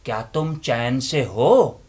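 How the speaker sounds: loud, impassioned recitation with long pauses; dramatic declamation. Acted. Inner voice confronting the listeners with a loud, impassioned declamation. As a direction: preach it like a stage monologue.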